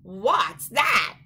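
loud sudden cry of wonder; startled cry. Acted. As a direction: call out, amazed. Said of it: "he quacked".

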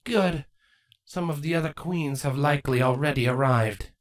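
lightly voiced regal queen; a hint of a regal changeling queen; queen's voice. Character voice Chrysalis.

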